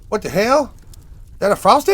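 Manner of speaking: high, loud outraged questions; angry manager. Retold or imitated. Manager catching the kid with the Frosty, outraged yell. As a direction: demand it like an appalled boss. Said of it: "started yelling at him".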